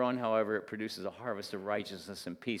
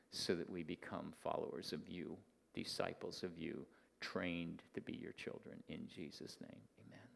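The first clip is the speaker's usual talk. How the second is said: closing prayer. Acted.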